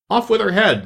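high, shrill-free shouted sentence; shouting at the top of her voice. A narrator's reading. Queen orders Alice executed, shouting at full voice. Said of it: "the queen shouted at the top of her voice".

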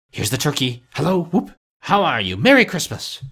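giddy, high greeting called out; joyful calling. Acted. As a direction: call out with delight. Scrooge calling to boy joyfully.

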